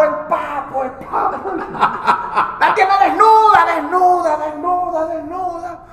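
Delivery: high dwarf voice, each phrase starting strong and fading; breathless peeping dwarf reporting; high dwarf voice fading on each repeat; squeaky dwarf commentary. Acted. Top dwarf reports what he sees.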